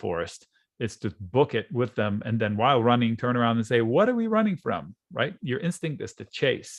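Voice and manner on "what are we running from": mock alarmed question. Quoting a panicked runner.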